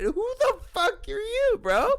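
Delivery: very high, slow, loud challenge; hammed-up high yell; retold indignant shout. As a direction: draw the question out in mock outrage. Retelling his escalated comeback.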